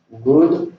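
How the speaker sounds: Good lifted high, set apart; slow English model. Shown as a demonstration. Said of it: "como good day". (Good separado y agudo)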